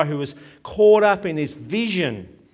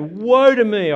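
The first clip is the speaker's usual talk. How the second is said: loud, higher cry of woe; anguished cry; 4 semitones higher, 7 dB louder than usual. Acted. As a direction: wail it like a man undone. Repeating Isaiah's cry.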